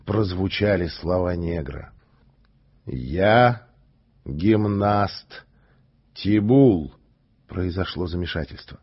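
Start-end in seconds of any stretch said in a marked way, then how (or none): 2.9-6.9 calm and simple. Acted. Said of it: "спокойно и просто".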